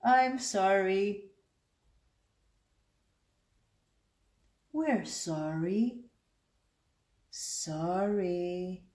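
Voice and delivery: drawn-out mock apology; lightly put-on cartoon apology, stretched vowels; South Park. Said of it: "South Park reference".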